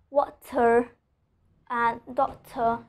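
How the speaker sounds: "water" and "doctor" with forceful t; slow word demo, true t in "water" and "doctor"; T with pressure. Shown as a demonstration. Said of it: "I'm pronouncing letter T with pressure".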